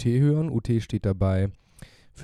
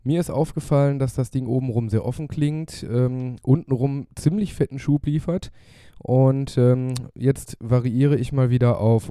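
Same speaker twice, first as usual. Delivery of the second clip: lips touching the mic, close and louder; right in your ear; 3 semitones higher, 7 dB louder than usual. Real, not acted. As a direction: speak right into the mic grille. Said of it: "ich bin jetzt wieder mit den Lippen ganz nah am Mikrofonkorb".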